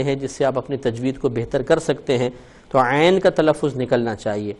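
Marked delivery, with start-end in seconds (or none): none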